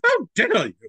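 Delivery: high, loud, drawn-out indignation; hammed-up "how very dare you" offence; mock outrage. Mock offence at being called Scottish.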